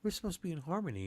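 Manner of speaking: high, quick mock-outraged deer voice; a prissy deer scolding its friend fast; voicing the deer. Deer scolding the snake-eating deer, mock outraged. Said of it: "and he's like".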